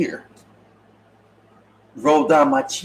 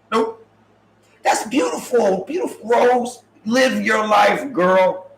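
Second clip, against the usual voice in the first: mock cheering Rose; 4 semitones higher, slower than usual.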